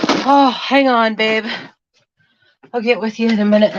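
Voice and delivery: panting between words; breathless after carrying; out of breath. Real, not acted. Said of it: "let me catch my breath".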